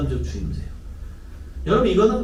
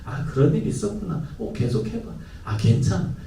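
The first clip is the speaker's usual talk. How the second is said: softer gentle reassurance; calm the child and invite more; accepting tone; 5 dB quieter than usual. Shown as a demonstration. Parent soothing the child to keep talking. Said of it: "수용적 태도를 보여줘요".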